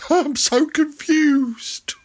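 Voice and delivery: breathy high whisper. Acted. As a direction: whisper it, confused. Whispered repeat.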